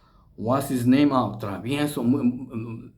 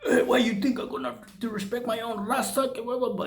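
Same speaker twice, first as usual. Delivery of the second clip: mock indignant; 8 semitones higher, 4 dB quieter than usual. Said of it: "And then he got mad".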